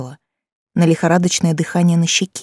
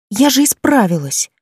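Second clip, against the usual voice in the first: higher, indignant protest; indignant grumble; 5 semitones higher than usual. Acted. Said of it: "бурчу возмущённо". (возмущённое бурчание)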